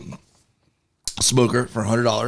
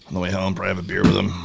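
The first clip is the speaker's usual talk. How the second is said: talking while eating; words round a bite of food; mouth full; 6 semitones lower, 3 dB quieter, much faster than usual. Real, not acted. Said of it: "but you're eating".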